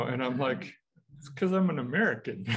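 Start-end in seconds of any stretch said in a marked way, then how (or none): 1.2-2.5 laughing reply. Real, not acted.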